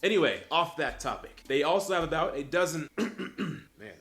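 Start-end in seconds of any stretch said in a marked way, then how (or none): 1.5-3.9 voice cracking. Real, not acted. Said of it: "voice cracked".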